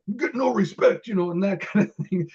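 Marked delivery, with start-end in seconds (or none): 0.1-1.1 high-pitched, aggrieved comic impression; Rodney Dangerfield. Extra mimicking the upset star's catchphrase, mock-aggrieved. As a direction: imitate an upset comedian's complaint. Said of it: "It's almost like".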